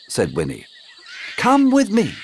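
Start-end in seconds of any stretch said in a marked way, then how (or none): 1.4-2.1 higher, welcoming guide; a friendly local guide leading the way; high friendly woman. Acted. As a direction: invite them along brightly. Winnie voiced.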